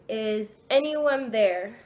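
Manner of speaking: slow, stretched-out call to a spirit; slow questioning call, lifting at the end; drawn-out repeated question. Retold or imitated. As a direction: ask it slowly, letting each word hang. Asks the board again, no response.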